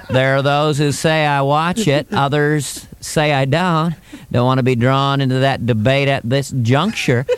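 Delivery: slow, evasive Bush; George Bush impression. Bush ducking a question about the show, slow and evasive. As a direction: hedge every clause slowly, like Bush. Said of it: "He's very slippery".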